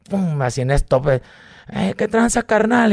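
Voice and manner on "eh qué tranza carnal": brash greeting. Retold or imitated.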